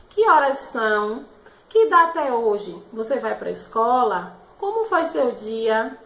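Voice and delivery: loud, clear questioning tune. Shown as a demonstration. Teacher showing pupils how questions sound, loud questioning tune. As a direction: read each as a real question. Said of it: "Sempre no final da pergunta".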